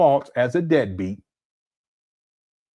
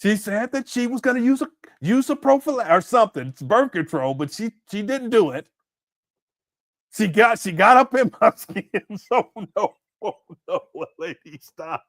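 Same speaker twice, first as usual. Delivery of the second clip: mock Umar voice; 3 semitones higher than usual. Host mocks the absent father's excuses, in a light mock voice. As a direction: play the lying dad bragging, half-hammed. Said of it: "Umar gonna be up here talking about".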